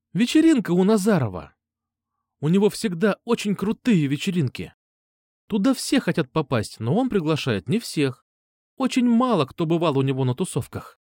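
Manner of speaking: put-on girl gushing about an exclusive party; eager girl's voice. Nastya tells about the party. (Настя с увлечением рассказывает о вечеринке)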